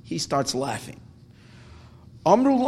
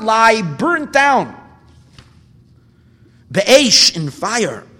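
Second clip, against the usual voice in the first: higher and louder, a crying-out lament over the ruin; anguished lament; 5 semitones higher, 6 dB louder than usual. Acted. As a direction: plead it like mourners wailing at the destroyed temple. Rabbis weep over burnt temple.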